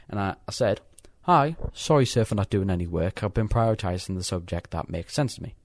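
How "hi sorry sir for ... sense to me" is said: reading out email. Retold or imitated. Student reading an email to his science teacher aloud, reading-out voice. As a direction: read your own email out, greeting punched. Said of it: "I'm reading this off the actual email".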